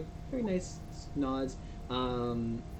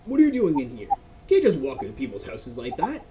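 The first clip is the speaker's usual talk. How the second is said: sharp, higher, louder challenge to the intruders; startled angry man; 7 semitones higher, 6 dB louder than usual. Acted. Homeowner to adventurers who barged in, startled loud shout. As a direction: call out the strangers barging into his house. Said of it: "you hear a male's voice".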